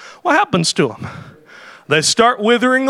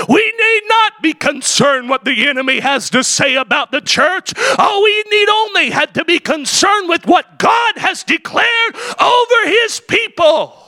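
full-force preaching; 3 semitones higher than usual. Acted. Preacher stirring the church about the enemy's taunts, ringing and climbing. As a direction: preach it out to the congregation.

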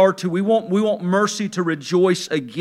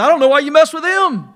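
teasing retort, breaking into a laugh; laughing comeback; 8 semitones higher, 6 dB louder than usual. Retold or imitated. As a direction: toss the line back at her with a laugh. Joking comeback to wife.

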